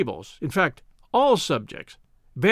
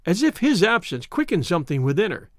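usual speaking voice

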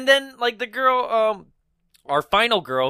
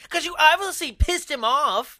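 high-pitched imitation of an annoyed girlfriend; mock accusing; 13 semitones higher than usual. Host imitating the girl blaming the driver, mock accusing. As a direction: throw blame at him in a raised pitch.

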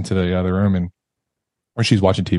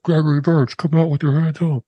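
higher, projected loudspeaker callout; imitated police loudspeaker; 6 semitones higher than usual. Police calling the man out of his house, loudspeaker imitation. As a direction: mimic a police loudhailer order. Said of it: "they're on loudspeakers".

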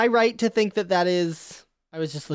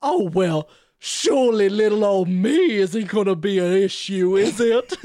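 put-on southern belle accent; 2 semitones lower than usual. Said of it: "he is like a southern belle".

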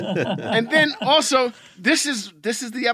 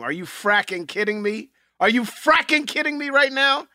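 mock exasperation. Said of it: "that became".

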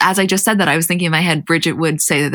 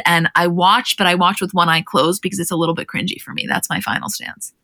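ordinary talk, nothing marked

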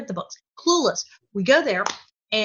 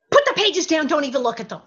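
urgent order; 5 semitones higher, 3 dB louder than usual. Retold or imitated. Father's urgent order, acted out.

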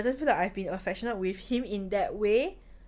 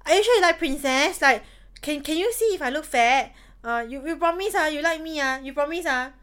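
clingy princess; 4 semitones higher, 3 dB louder than usual. Retold or imitated. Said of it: "I get all like".

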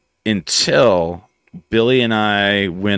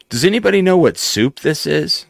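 Lou Diamond Phillips; 9 semitones higher than usual. Retold or imitated. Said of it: "Lou Diamond Phillips is like".

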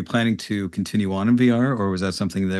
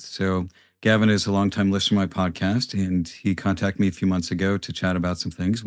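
quiet, far from mic. Real, not acted. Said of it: "I sound very quiet on that".

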